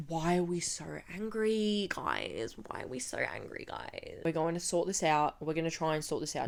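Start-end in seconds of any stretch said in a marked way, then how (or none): 0.1-2.6 softer, sing-song mockery of the guards; mock patronizing question. Mocking the security guards. 2.6-4.2 much softer, nearly whispered mockery; hushed mock repeat. Mocking the security guards.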